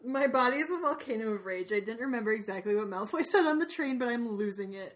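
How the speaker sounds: 1 mock rage text read out. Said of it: "That's what you texted me".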